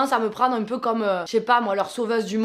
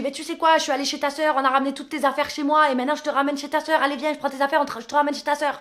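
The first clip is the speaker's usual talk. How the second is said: his shouting; 5 semitones higher, faster than usual. Retold or imitated. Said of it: "il lui crie dessus".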